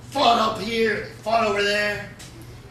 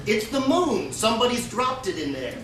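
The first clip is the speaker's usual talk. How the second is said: higher, louder coaxing call to the bears, laughing; sly trickster; 5 semitones higher, 3 dB louder than usual. Acted. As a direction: lure the bears in like a con man. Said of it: "he said to them".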